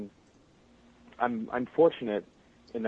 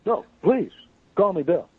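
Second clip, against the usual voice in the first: a higher, louder character voice; Shadow voice; 8 semitones higher, 7 dB louder than usual. Pretend. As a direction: slip into the hedgehog's voice. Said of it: "gonna make me start talking Shadow".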